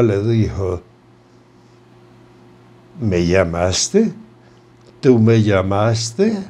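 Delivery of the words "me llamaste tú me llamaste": low, slow spectral voice; a menacing apparition asking slowly and low; ghostly figure. Acted. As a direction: drag the words out low like a phantom. Ghostly figure speaks to doctor.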